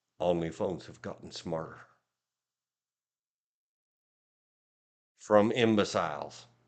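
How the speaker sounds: low, eerie, spooky narrator voice. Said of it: "Spooky narrator voice".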